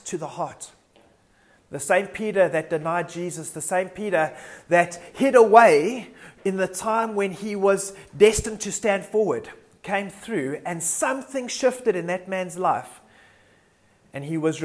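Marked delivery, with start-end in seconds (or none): 1.7-13.0 raised, emphatic sermon delivery; impassioned preaching. Real, not acted. Preacher recounts Peter's turnaround to church, impassioned emphasis. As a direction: build forcefully through the story, punching key phrases.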